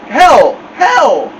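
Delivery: high, loud muffled call for help; mumbled cry. A narrator's reading. Teased boy cries out from the mirror, mumbled cry. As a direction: holler with lips stuck. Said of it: "sounded like he had something in his mouth".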